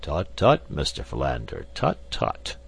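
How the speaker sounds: mild scolding tut-tut; cautioning tut tut. Acted. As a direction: gently chide him. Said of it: "cautioned Professor Porter".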